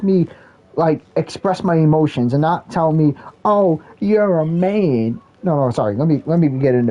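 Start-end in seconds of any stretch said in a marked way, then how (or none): 3.4-5.2 slow, half-hearted mocking woman; a first weak try at a girl's voice; mock woman's voice. Shown as a demonstration. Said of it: "let me do it in a better voice".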